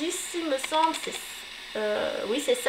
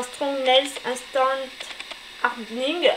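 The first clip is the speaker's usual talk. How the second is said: "Strong Nails Instant Hardening" read slowly in a French accent; French-accented English; slower than usual. Real, not acted. Vlogger reading an English product name in a French accent. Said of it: "Excusez-moi pour mon accent anglais".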